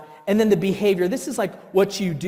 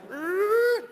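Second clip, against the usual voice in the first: much higher shout of release; relieved shout; slower than usual. Retold or imitated. Venting at the child, a high released shout. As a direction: let it burst out high. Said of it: "I felt a little bit relief".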